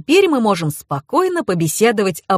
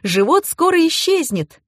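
much higher, elated cries; excited yelling; 10 semitones higher than usual. A narrator's reading. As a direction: keep shouting with joy. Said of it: "заорала Маша". (восторженно, высоким голосом)

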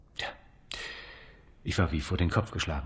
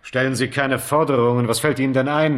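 louder indignant rebuff; outraged refusal; 5 semitones higher, 5 dB louder than usual. Acted. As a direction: snap back at the nerve of it. Rebuffing the demand angrily.

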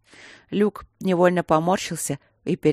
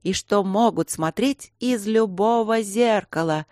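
slow, higher spooky storytelling voice; ghostly voice; 5 semitones higher, slower than usual. Acted. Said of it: "подхватила его тон Рита".

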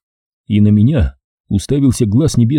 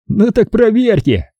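slow, higher furious challenge; 12 semitones higher, slower than usual. Acted. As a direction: dare him, furious and slow. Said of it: "разъярился Эдгар".

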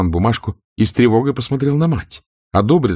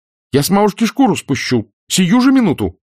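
much higher and louder angry outburst; furious exclamation; 11 semitones higher, 3 dB louder than usual. A narrator's reading. Scarlett about Mammy, furious threatening cry. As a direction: jump up and threaten in fury. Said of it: "воскликнула, вскакивая".

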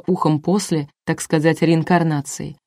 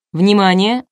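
mild showman's call for attention; announcing; 4 dB louder, slower than usual. A narrator's reading. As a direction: announce it to the studio. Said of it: "объявил Николай".

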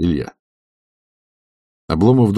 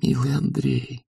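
softer, slow, moved to tears; tender, tearful; 6 semitones higher, 7 dB quieter than usual. Acted. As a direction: say it softly through tears of joy. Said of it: "во взгляде его уж было умиление и слёзы". (нежно, тихо, со слезами)

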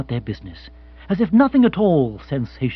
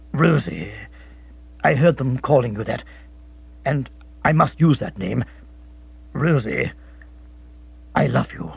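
tender lowered love confession; tender declaration; 4 semitones lower than usual. Acted. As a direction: say her name like a treasure. Lovelorn captain declares love.

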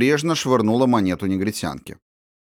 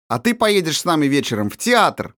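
sudden announcement; 7 semitones higher than usual. A narrator's reading. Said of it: "неожиданно объявила княжна".

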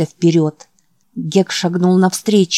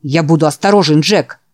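wolf voice. Acted. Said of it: "Его голос сейчас мало отличался от воя".

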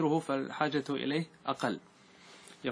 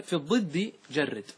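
slow, chanted verse half-line; verse quote; 2 semitones higher, slower than usual. Shown as a demonstration. Teacher reciting the verse for his class, slow chant. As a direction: intone the verse slowly.

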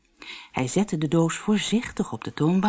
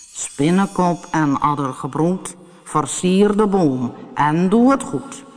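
calling a spell. Acted.

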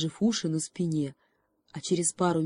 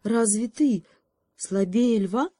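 pleading hope; 5 semitones higher, 4 dB louder, slower than usual. Acted. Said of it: "с последней надеждой спросил заяц".

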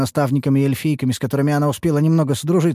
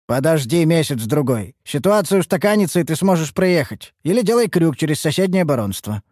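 caravan master advising; 6 semitones higher than usual. Acted. Караванщик советует девочке.

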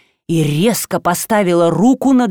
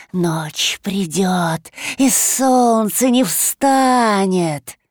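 very slow, drawn-out monster voice; eerie creature voice; much slower than usual. Acted. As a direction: speak like an ancient forest monster. Monster Likho speaks.

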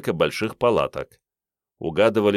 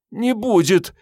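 sobbed; 14 semitones higher, 4 dB louder, slower than usual. A narrator's reading. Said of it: "всхлипнула Мариетта".

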